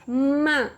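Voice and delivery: "Ma" with a long held m and vowel; sounded-out syllable. Shown as a demonstration. Teacher getting a child to listen, "Ma" drawn out. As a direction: sound out "Ma" as one stretched syllable. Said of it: "Olha só o som que você tá falando".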